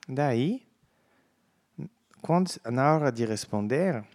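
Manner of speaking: usual speaking voice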